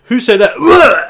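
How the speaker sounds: high, loud, slow bewildered call; dazed NPC asking loudly; confused question. Acted. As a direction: look round lost and puzzled. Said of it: "Eric's looking around going".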